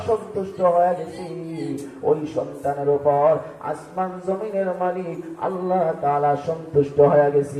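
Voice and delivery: rhythmic sing-song sermon cadence; melodic preaching. Acted. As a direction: preach in a lilting chant, stretching phrase endings.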